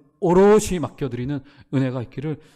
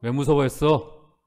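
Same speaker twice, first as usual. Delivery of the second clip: gentle rebuke; 2 semitones lower, slower than usual. Retold or imitated. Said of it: "첫 번째".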